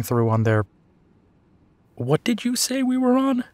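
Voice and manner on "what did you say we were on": much higher, singsong questioning tease; teasing. Acted. Partner quizzing partner on the cover story, teasing. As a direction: tease with a lifted, high-pitched question.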